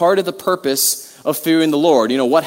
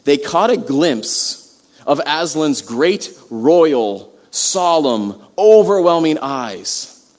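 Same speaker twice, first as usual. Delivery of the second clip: slow, weighted reading with long pauses; dramatic story reading; slower than usual. Acted. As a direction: read it aloud word by word, savouring it. Reads a Narnia passage aloud.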